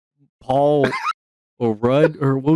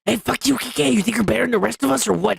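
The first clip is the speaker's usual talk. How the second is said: mock outrage; 6 semitones higher, faster than usual.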